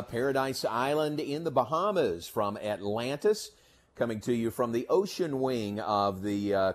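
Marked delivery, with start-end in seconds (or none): 0.0-2.3 loud, raised voice against the wind; shouting over wind. Real, not acted. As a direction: project over the breeze. Broadcasting outdoors on windy day.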